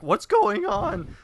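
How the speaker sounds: slow bewildered soldier caught off guard; confused henchman. Retold or imitated. Mocking soldiers in the beach fight, slow baffled cry. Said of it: "guys that are like".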